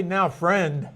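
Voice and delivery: mildly condescending address, imitated. Teacher imitating someone addressing a so-called friend, mildly condescending. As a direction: talk down a little, as if correcting someone. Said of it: "like in a condescending manner".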